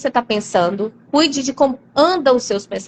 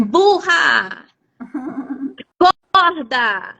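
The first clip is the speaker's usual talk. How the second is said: mock scolding; much slower than usual. Coach woman rebuking her follower, a mock scolding. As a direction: snap her awake, half playful. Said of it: "e fala assim".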